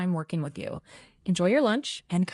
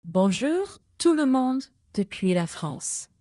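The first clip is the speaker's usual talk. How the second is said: enthusiastic French greeting, pitched higher; more enthusiasm; 4 semitones higher than usual. Pretend. AI assistant asked for twenty percent more, enthusiastic French. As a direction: greet everyone with added enthusiasm. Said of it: "give me twenty percent more enthusiasm".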